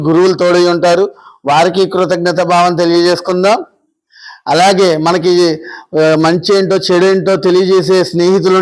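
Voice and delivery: even-toned guided gratitude prayer, lines lifting at the end; guided meditation. Acted. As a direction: lead the group steadily through giving thanks. (ధ్యానం చేయిస్తున్న స్థిరమైన స్వరం)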